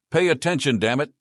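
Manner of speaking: high, loud squeal; an angry mage squeals at the shopkeeper. Acted. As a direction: squeal it out in a tantrum. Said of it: "she squealed".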